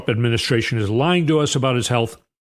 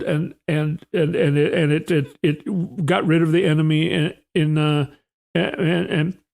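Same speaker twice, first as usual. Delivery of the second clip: stammering Bessent impression; 3 semitones higher than usual. Treasury chief stumbling through a D-Day comparison. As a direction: lose the thread and keep restarting. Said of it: "so he's talking like this".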